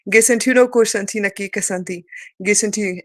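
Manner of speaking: rhythmic chanted light language. Acted. Speaker channeling light language to viewers, chanting. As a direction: channel it like a sacred tongue.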